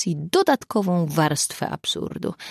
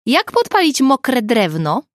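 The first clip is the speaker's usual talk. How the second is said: raised, higher voice, slowed down; loud, high, drawn-out question; calling over wind; 7 semitones higher, 7 dB louder than usual. A narrator's reading. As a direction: shout a question slowly into a speakerphone over wind. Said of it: "wiatr ... skutecznie zagłuszał ich rozmowę".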